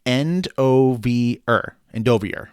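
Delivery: "Endovier" sounded out slowly, then whole; demonstrated pronunciation. Shown as a demonstration. Host relays a listener's correction, "Endovier" carefully with "er" ending. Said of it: "He says Endovier is".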